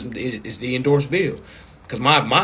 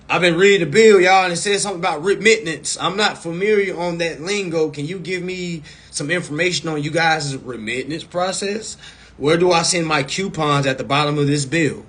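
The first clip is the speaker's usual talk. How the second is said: polite customer call demo; 3 semitones higher than usual. Shown as a demonstration. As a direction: play the curious customer phoning the company. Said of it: "Literally, do this".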